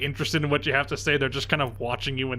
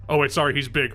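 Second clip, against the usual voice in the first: big dumb guy voice; faster than usual. Acted. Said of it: "He's gotta have a big dumb guy voice".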